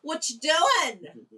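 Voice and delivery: put-on high, slow Queensland accent with a laugh. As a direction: drawl it in a broad Queensland accent. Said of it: "my Queensland accent 'cause I'd be like".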